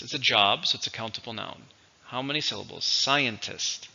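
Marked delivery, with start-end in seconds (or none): 2.8-3.9 "Scientist" as SCI-en-tist; stress on first syllable. Shown as a demonstration. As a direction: model "Scientist" with the weight on SCI. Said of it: "stresses on the first".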